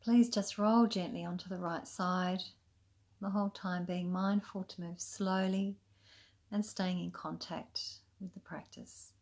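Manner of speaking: calm, unhurried yoga nidra guidance with long pauses; soothing, even meditation voice; guided meditation. Acted. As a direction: gently lead them into rest, leaving space between phrases. Guides a relaxation practice.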